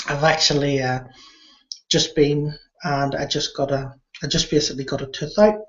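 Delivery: numb from the dentist; slightly slurred, frozen mouth. Real, not acted. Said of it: "one whole side of my mouth is completely frozen".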